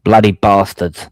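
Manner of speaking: British "Bloody bastards", slow and clipped; British accent. Shown as a demonstration. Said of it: "do you say bloody bastards?".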